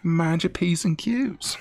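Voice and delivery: a put-on American accent, lightly done; joking American accent; mock American accent. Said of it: "American accent".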